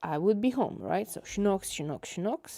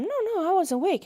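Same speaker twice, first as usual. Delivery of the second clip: high-pitched mock protest; insistent retold protest; 12 semitones higher, 4 dB louder, faster than usual. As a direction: insist in a raised, higher voice.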